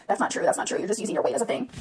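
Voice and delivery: soft, breathy mock of critics; quiet imitation of a hater. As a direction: whisper the critics' line dismissively. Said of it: "people will sit here and say".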